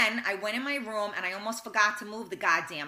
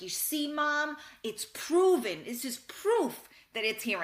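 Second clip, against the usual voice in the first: imitating an amazed kid, raised pitch; triumphant child; 6 semitones higher than usual. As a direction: proudly present the proof like a child. Child triumphantly shows proof to mom.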